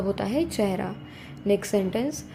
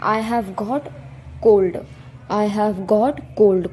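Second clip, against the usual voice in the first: slow model reading; 3 dB louder, much slower than usual. Shown as a demonstration. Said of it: "teacher models the sentence slowly".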